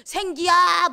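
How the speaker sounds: God summoning you sharply; calling out. Retold or imitated. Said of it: "화만 부르면요".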